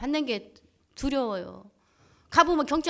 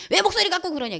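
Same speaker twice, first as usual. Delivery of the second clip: high, louder mock retort; retold retort; 7 semitones higher, 5 dB louder than usual. Husband answering complaint about his loud voice, acted retort. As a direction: snap back in an indignant, raised voice.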